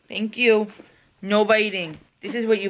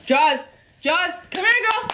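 much higher and bright, calling her name; excited puppy calling. Real, not acted. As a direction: coax the puppy over, thrilled.

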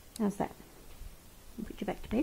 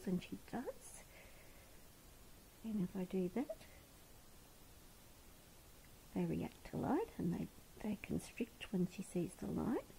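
hushed whisper while examining her; whispered check; 6 dB quieter than usual. Real, not acted. Carer whispering while checking the pupils, hushed. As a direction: whisper so she stays calm.

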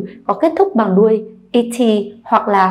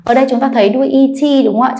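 ordinary delivery

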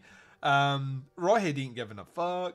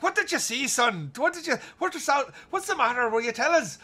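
much higher, louder badgering; a crowd of old men pestering the boy; mock old men shouting; 11 semitones higher, 6 dB louder than usual. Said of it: "old men shouting at him".

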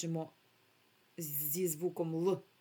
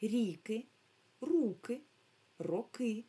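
quicker whole-word reading; read faster; 3 semitones higher, slower than usual. Shown as a demonstration. Teacher tells children to read quicker, brisk word list. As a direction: read «Раки, ріки, руки, роки» briskly, each word whole. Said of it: "Прочитайте швидше".

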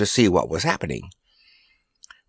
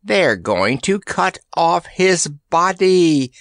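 confiding tribesman; 7 semitones higher, slower than usual. A narrator's reading. Tribesman confides a threat in Randy's ear, slow creature voice. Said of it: "confided one of the long-nosed tribesmen".

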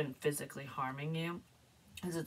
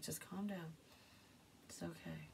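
softer, whispered reassurance; calming someone close in a whisper; soothing whisper; 11 dB quieter than usual. Retold or imitated. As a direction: gently hush them. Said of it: "someone's gonna say that to you".

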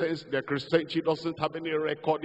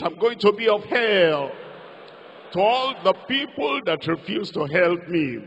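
loud, higher preached confession; loud declaration; 3 semitones higher, 6 dB louder than usual. Shown as a demonstration. Preacher leading the church's loud confession. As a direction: shout it out for the whole church. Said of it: "Say it".

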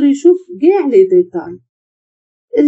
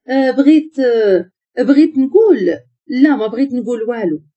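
hesitant, tangled false starts, acted; flustered stammering. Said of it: "وبدات كتدخل وتخرج في الهضرة".

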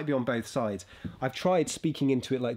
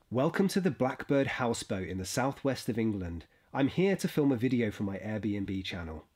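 voiceover read. Shown as a demonstration. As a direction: read the intro line like a travel voiceover. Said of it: "this is literally all I'm gonna do".

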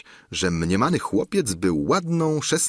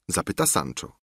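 ordinary delivery

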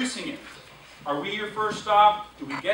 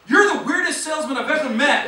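laughing; 5 semitones higher, 6 dB louder than usual. Real, not acted. Husband's remark, laughing.

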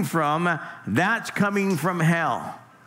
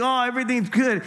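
higher, faster mock-breezy reassurance; mock carefree; 6 semitones higher, faster than usual. Imagining a careless driver near lions, mock-cheery. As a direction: play the fool who thinks all is fine. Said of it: "Because you think".

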